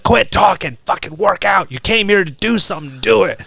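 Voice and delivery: urgent, mock-barked orders; imitated coach yelling. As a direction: imitate a coach pushing a slacker. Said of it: "he's yelling at us like".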